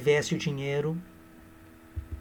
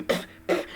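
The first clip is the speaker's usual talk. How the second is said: mock spitting; 6 dB quieter than usual. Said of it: "E gospe".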